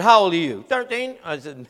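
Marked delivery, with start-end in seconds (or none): 0.0-0.6 loud, pointed question; stern demand. Retold or imitated. Preacher demands the boy's age. 0.7-1.2 put-on high, short kid's answer. Boy answers his age.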